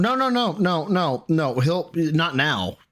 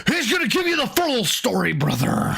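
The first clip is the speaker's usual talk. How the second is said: wrestling promo voice; 5 semitones higher, faster than usual. Acted. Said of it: "wrestling promo".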